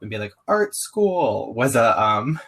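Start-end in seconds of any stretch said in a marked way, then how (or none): 0.5-1.5 mock excited exclaim. Mock announcing his surprising path.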